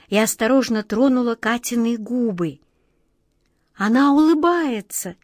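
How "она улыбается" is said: quiet puzzlement. A narrator's reading. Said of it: "тихо и недоумённо сказала Ниточка".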